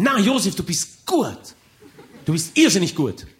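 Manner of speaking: gushing friends flattering; Freunde-Stimme. Acted. Freunde schmeicheln Josef. (höher, lauter, lachend schmeichelnd)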